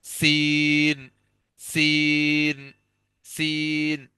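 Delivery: a drawn-out, gentler hissing سین. Shown as a demonstration. Teacher repeats the lighter سین for students. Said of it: "سین کو قدرے کم سختی سے".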